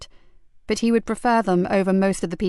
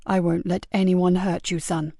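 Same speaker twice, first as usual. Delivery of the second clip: reassuring; 2 semitones lower than usual. Acted. Sergeant promising a scared boy safety, tenderly. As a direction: comfort him like a father.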